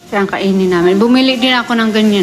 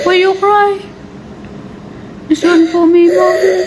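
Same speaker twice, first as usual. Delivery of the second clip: crying; 8 semitones higher than usual. Real, not acted. Child crying over donut.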